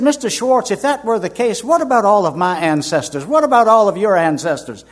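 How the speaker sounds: high-pitched, pressing questions; retold challenge. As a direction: imitate an insistent objection. Doctor challenges him in retold exchange.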